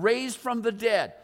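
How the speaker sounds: slow, firm stress on FROM THE DEAD; "from the dead" drawn out emphatically; emphasized phrase. Shown as a demonstration. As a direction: lean hard on "from the dead". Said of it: "I'm gonna emphasize that idea".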